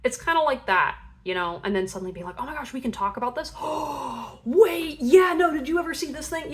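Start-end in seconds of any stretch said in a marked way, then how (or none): 2.4-3.5 eager surprise. Pretend. Friend discovering shared hobby. 3.6-4.4 excited gasp. Pretend. Excited discovery. 4.4-6.5 much higher and louder, tumbling fast at the end; gushing excitement. Pretend. Friend discovering shared hobby.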